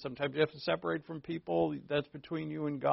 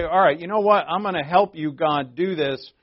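louder, eager mock promise to God; self-assured believer; 2 semitones higher, 7 dB louder than usual. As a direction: play the overconfident helper. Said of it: "if we say".

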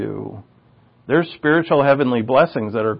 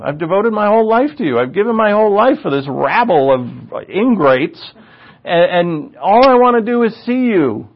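higher-pitched, insistent pleading; impassioned plea; 6 semitones higher than usual. Acted. Moses begging God to show himself, impassioned plea. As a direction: plead as Moses, piling up the reasons.

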